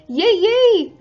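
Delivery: high happy yays; excited cheering. Real, not acted. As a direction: cheer with delight. Cheering viewer news.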